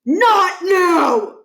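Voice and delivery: loud, high gruff holler; an irritated principal hollers down the phone. Acted. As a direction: bark it to get rid of him. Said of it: "Barkin hollered".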